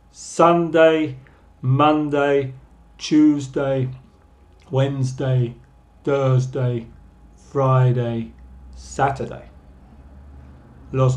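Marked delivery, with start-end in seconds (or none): 0.1-9.5 teacher model reading. Shown as a demonstration. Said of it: "Primero voy a leer todos los nombres en inglés".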